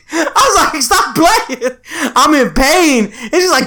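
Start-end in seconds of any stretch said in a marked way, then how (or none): 0.8-3.0 high, whiny complaint broken by laughter; laughing plea. Retold or imitated. Son pleading with mom in the hallway, laughing. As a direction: beg her to stop while cracking up. Retelling himself in pain.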